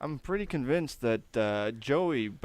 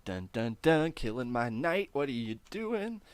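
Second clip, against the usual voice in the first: annoyed dad; 5 semitones higher, 3 dB louder than usual. Retold or imitated. Dad voiced, annoyed in doorway.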